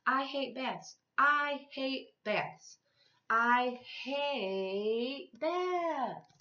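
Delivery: put-on high, loud childish yell, stretched out at the end; a child refusing her bath at the top of her voice; stubborn little girl yelling, the last words dragged slowly; yelling tantrum. A narrator's reading. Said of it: "Patsy ran from the bathroom yelling".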